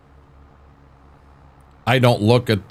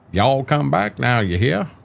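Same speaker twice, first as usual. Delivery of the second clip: mock Southern accent; 4 semitones higher than usual. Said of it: "I don't think you sound Southern".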